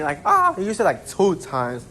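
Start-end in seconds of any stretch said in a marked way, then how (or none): 0.2-0.5 imitated scream. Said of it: "those clips of just characters screaming".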